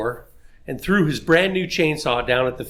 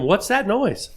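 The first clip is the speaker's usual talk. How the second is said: startled yell; 7 semitones higher, slower than usual. Retold or imitated. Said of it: "startled and yelled at him".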